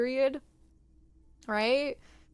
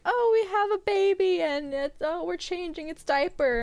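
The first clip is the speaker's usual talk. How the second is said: lightly mocked sitcom parent, pitched up; a hint of a chirpy show parent, higher; 5 semitones higher than usual. Friend imitating parents in movies and shows, lightly put-on. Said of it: "like, movies and s-, and, like, shows".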